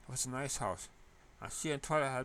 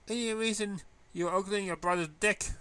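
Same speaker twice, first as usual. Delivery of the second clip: teasing voice; 8 semitones higher, 6 dB louder than usual. Acted. Teasing high voice.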